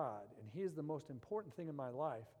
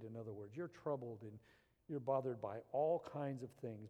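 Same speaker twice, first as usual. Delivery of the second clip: tender; 2 semitones lower than usual. Retold or imitated. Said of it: "tenderness in His voice".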